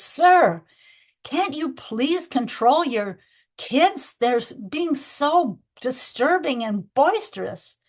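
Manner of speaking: a fed-up passenger pleading slowly with a stranger; exasperated. Retold or imitated. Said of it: "the first man gets exasperated".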